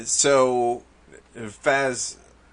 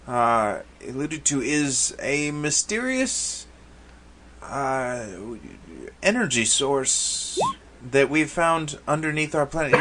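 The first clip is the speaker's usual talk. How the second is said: lightly voiced, slightly higher, halting official; Zand interrupting; 4 semitones higher than usual. Zand tells visitors of a mysterious energy source, lightly voiced hesitant interjection. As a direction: interject with careful, halting explanation.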